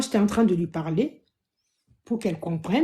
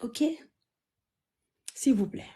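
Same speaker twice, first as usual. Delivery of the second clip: hushed, subdued plea, much softer; soft pleading; 3 semitones lower, 8 dB quieter than usual. Real, not acted. Begging viewers to excuse her as she is, softly pleading. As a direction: beg quietly, voice dropped low in volume.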